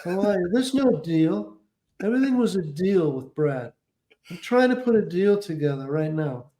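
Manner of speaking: a hint of a brisk dealmaker; Brad Gray impression. Client doing his manager on the phone, lightly done. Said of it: "great impression".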